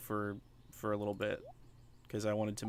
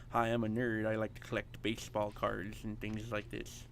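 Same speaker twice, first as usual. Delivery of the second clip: nerdy voice. Acted. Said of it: "a nerdy voice you hear on, like, T V".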